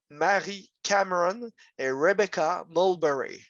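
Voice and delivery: names said the English way; English pronunciation of the names; English accent. Real, not acted. Lecturer says names in English accent. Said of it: "Merci pour mon accent".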